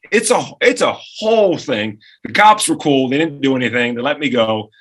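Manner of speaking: usual speaking voice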